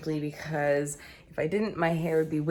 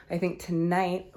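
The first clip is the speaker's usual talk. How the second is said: out of breath; 2 semitones higher than usual. Real, not acted. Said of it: "ooh, I'm out of breath".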